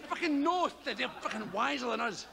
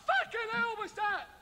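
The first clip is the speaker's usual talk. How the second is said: startled thought; 9 semitones higher than usual. Retold or imitated. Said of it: "I thought".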